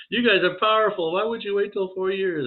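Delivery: high pleading voice. Retold or imitated. Pleading with the teasing spirits, high and whiny. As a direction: whine it up high like a kid pleading.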